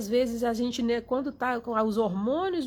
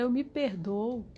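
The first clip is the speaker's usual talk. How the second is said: gentle self-forgiveness; slower than usual. Shown as a demonstration. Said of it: "É falar".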